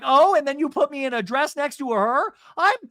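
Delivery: high, loud outraged rant; shrill-pitched impression of someone losing it; imitated screaming. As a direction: build to a drawn-out, high mock scream. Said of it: "Alexis is screaming".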